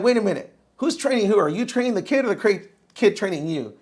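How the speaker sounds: put-on scoffing client doubting the young trainer, loud and high; mock incredulous. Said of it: "And they're like".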